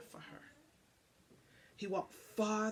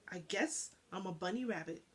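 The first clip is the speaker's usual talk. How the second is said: trembling; 5 dB quieter, faster than usual. Acted. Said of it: "his lips trembling".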